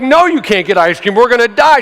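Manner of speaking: acted exasperated panic; exasperated arguing. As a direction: argue as if lives depend on it. Acted quarrel with wife over ice cream.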